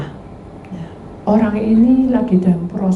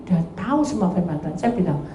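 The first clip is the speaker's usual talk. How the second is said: ordinary talk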